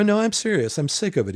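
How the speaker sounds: retold angry outburst. To Brian over breakfast, fed up with Philip, a mock heated outburst. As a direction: replay the fed-up snap at the breakfast table.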